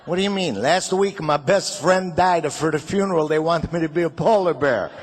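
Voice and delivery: indignant Italian immigrant dad; Italian father. Retold or imitated. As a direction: build up in a comic Italian accent. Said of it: "He always had problems with the English language".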